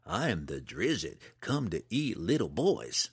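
slow, playful menace; mock monster. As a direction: tease the little one as a pretend monster. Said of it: "waved his fingers menacingly in the air".

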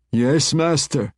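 high, slow demon voice; submissive demon servant. A narrator's reading. Demon answers the master who summoned her, submissive and high.

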